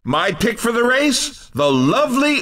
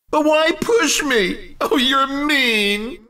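higher, drawn-out playful protest; mock hurt; 3 semitones higher than usual. Announcer protesting at being pushed, mock hurt. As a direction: whine lightly as if pushed around.

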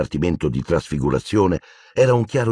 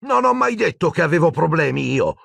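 ardent protest; 11 semitones higher than usual. A narrator's reading. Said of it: "protestò ardente Ron".

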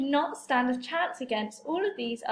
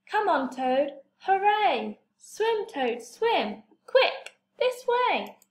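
cheering crowd; 6 semitones higher, slower than usual. Acted. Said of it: "The crowd cheered and clapped and shouted".

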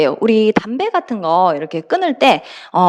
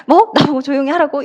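a touch of offended disbelief; mock indignant; 3 semitones higher than usual. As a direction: lightly act out being told to shush. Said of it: "이런 느낌이에요".

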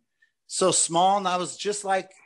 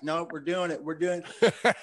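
put-on Paul Maiden's English accent; 3 dB quieter than usual. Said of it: "I can't do the accent".

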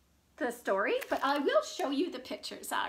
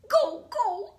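put-on louder, higher baby call; baby crying out; 6 semitones higher, 5 dB louder than usual. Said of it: "cried the baby".

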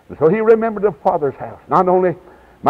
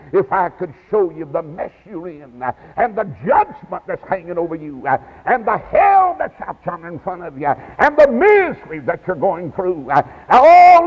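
fervent preaching; 3 semitones higher than usual. Real, not acted. Preacher urging sinners to get saved, fervent building preaching. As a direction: plead with sinners, building to a cry.

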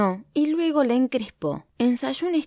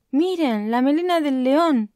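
shouting; 6 semitones higher than usual. Acted. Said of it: "gritó el hipopótamo".

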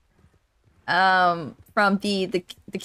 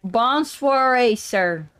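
country Arthur French; 3 semitones higher, much slower than usual. Pretend. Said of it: "I'm Arthur now".

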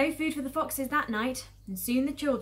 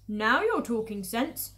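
pleased farmer; 5 semitones higher, 6 dB louder than usual. Acted. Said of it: "said Boggis".

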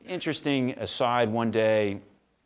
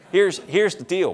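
laughing through the words, louder and slow; 8 semitones higher, 8 dB louder than usual. Real, not acted. Telling the burly guy the deal, laughing loudly. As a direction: chuckle it out while making the point. Laughing while delivering punchline.

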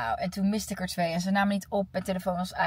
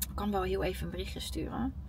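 whisper; 10 dB quieter than usual. Real, not acted. Muttering aside while thinking.

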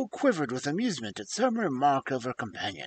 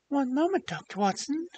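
high, anxious pleading cry; 11 semitones higher than usual. Acted. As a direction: beg him to stop. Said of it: "cried the woman in a pleading voice".

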